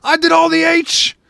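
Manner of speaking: squeaky high mock voice, dazed and proud; dopey stoned voice. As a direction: play the stoned kid proudly claiming a fake name. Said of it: "he'd go".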